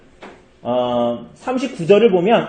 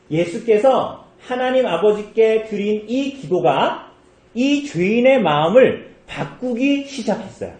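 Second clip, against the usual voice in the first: ordinary talk, nothing marked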